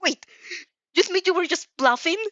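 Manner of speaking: high, loud indignant shout; an outraged woman shouting her question; shouted disbelief. A narrator's reading. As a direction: yell it back at her in outrage. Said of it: "she shouts".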